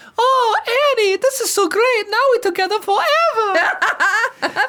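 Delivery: very high voice, every word stretched out. Retelling a cartoon scene where a ghost haunts Anakin: Jar Jar Binks voice. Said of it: "the Jar Jar Binks haunting Anakin".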